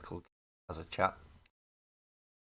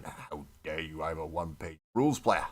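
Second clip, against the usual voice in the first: mock grumbling player. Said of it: "You might be grumbling now, going".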